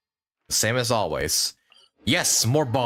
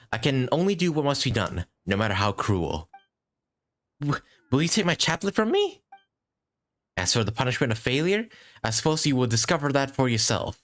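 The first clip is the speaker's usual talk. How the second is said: higher-pitched, measured dialogue read; lightly acted character voice, pitched up; game character reading; 6 semitones higher than usual. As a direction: gently deliver a solemn warning in character.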